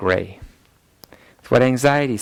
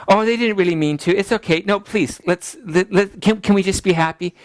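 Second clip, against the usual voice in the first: pleading people-pleaser; 6 semitones higher than usual. Retold or imitated. Mimicking an anxious people-pleaser.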